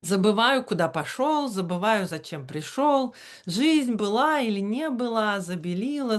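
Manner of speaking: lilting, chanting Russian verse reading; напевное чтение стихов; sing-song poetry reading. Shown as a demonstration. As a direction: read it like the poet reads himself, in a sing-song. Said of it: "sing-song reading with that inflection".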